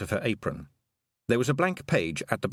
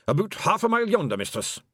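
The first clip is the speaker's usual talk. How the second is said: lightly voiced Scots pixie; a touch of wee Scottish flier; Hamish the Feegle aviator; 10 semitones higher, 3 dB louder than usual. Hamish answering Tiffany, lightly voiced pixie.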